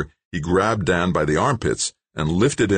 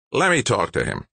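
put-on high raspy old-timer; sandpaper-voiced old man; 8 semitones higher than usual. A narrator's reading. Old man stepping in to question the stranger, raspy voice. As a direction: rasp it out, pitched up. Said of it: "said in a voice like sandpaper".

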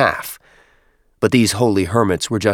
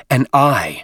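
startled exclamation, pitched up and louder; gasped; 5 semitones higher, 4 dB louder than usual. Acted. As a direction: cry it out in shocked awe. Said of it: "Fortitude gasped".

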